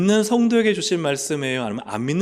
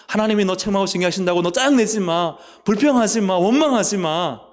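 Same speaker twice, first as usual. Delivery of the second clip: preached rebuke; 5 semitones higher, 6 dB louder than usual. Acted. Preacher scolding the congregation.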